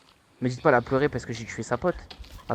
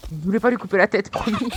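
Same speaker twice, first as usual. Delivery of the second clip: higher, protesting innocence; pleading; 8 semitones higher, 3 dB louder than usual. Real, not acted. Gamer protesting to friends he didn't mean it, pitched up.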